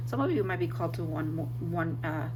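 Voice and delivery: struggling to get words out; strange voice. Real, not acted. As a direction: voice not quite working. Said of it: "my voice is like, not my voice".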